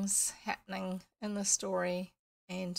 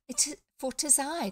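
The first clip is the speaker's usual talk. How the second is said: fairy queen voice; 4 semitones higher than usual. Acted. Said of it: "small, high voice, like a little girl".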